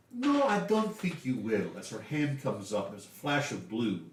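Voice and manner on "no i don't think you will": firm refusal. Acted. Lady Drana refuses the cultists.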